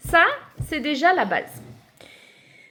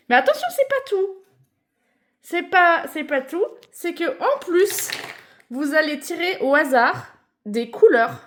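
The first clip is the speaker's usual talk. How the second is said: infomercial. Pretend. Maman annonce une règle en plus.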